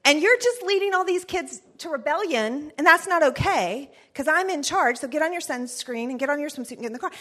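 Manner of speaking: mock-stern mother scolding, speeding up at the end; stern mom lecture. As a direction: lay out who's in charge. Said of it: "That was my great phrase".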